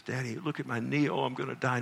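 a hint of a whining little boy, softly; mildly mock-dramatic hurt child; lightly voiced child. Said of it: "he says".

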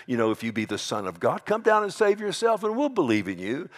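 mocking. Preacher imitating mockers at the cross, high mocking taunt. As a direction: jeer it at a rising pitch. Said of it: "They were mocking the one dying".

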